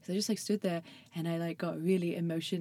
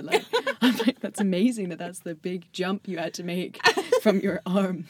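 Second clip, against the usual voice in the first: laughing; 3 dB louder than usual. Retold or imitated.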